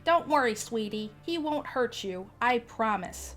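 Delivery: put-on lady reassuring the boy she grabbed; fake soothing. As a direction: soothe the child while running off. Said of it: "this lady is just like".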